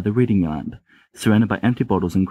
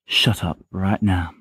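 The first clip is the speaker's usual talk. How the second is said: serene; slower than usual. Acted. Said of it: "very serenely".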